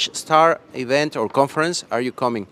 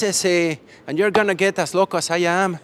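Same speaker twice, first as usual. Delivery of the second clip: Chicano slang accent; 4 semitones higher than usual. Shown as a demonstration. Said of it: "I am gonna start speaking like this".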